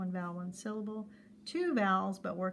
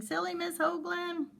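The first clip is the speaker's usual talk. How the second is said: put-on teasing kid voice; 9 semitones higher than usual. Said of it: "I bet you were saying".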